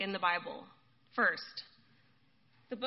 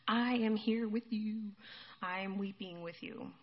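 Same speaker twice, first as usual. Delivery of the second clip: compassionate; 4 dB quieter than usual. Acted. Jesus weeps with those who mourn, tender compassion. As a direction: comfort gently, unhurried and sinking softer. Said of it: "He had compassion".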